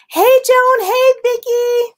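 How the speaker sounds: high, sing-song hello to viewers; bright greeting. Real, not acted. Greeting viewers who just joined the live, high and sing-song.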